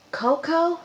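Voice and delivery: high called name from behind; calling a name. Retold or imitated. Someone behind him calls his name, high and sudden. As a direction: call his name from out of nowhere. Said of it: "someone says".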